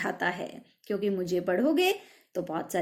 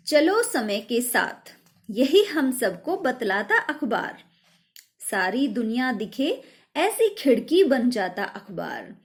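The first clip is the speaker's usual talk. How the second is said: poem recitation. Shown as a demonstration. Teacher recites next poem verse. (कविता पाठ)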